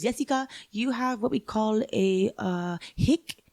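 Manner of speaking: lightly voiced teacher, pitch lifting high on the last word; retold Spanish teacher. Spanish teacher telling her student about her accent, lightly imitated. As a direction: imitate a teacher hesitating before her diagnosis. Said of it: "so my Spanish teacher, she's like".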